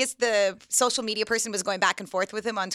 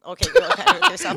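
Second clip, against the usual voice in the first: higher and louder mock cheer; a pitched-up sarcastic brush-off; sarcastic dismissal; 9 semitones higher, 6 dB louder than usual. Retelling her reaction to the one-and-oh troll, high mock-cheering sarcasm. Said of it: "I was like".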